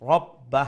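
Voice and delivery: "রব্বা" ending abruptly without stretching; heavy ra, unlengthened final sound in "রব্বা"; short stopped ending. Shown as a demonstration. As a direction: stop short on the last syllable of "রব্বা". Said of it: "আর লম্বা হইতো না".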